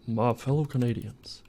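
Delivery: lightly voiced presidential address; a hint of a statesman with a stray Southern Canadian accent; Barack Obama. Modeller addressing fellow Canadians as president, light impression. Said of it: "Why is my Barack Obama Canadian Southern?".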